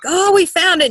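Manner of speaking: eager little announcement, lightly acted; excited daughter. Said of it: "And she was like".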